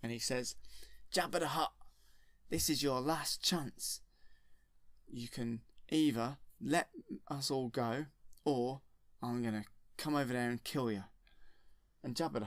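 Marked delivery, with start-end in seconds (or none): 1.1-11.0 retold shout. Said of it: "he shouts across to Jabba the Hutt".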